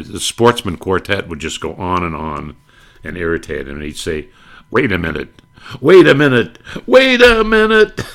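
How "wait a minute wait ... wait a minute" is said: rising frustration. Retold or imitated. Benny losing patience with the quartet, building from plain to high exasperation. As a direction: climb higher and louder on each repeat. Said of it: "when we'd get frustrated".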